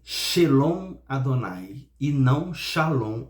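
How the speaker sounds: first Shalom said as shelõ, second with a plain a, slow; construct form. Shown as a demonstration. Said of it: "pra falar certo".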